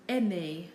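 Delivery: AIMER ending in a clear "ay"; French é sound. Shown as a demonstration. Teacher giving learners examples of acute accent, French é sound. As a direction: say AIMER with the final syllable as "ay". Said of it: "it is pronounced like A".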